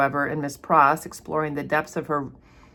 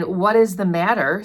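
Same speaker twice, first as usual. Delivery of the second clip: lightly vexed, louder question; vexed, abrupt; 3 semitones higher, 6 dB louder than usual. Acted. Man to the woman who screamed, mildly vexed. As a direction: read with a touch of abrupt irritation. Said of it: "speaking in a vexed, abrupt voice".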